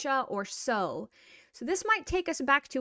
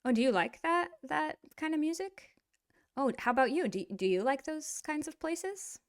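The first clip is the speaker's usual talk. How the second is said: casual friendly interest; 4 semitones higher than usual. Acted. Learner includes a Russian friend in conversation, friendly rising questions. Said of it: "you can kind of be like".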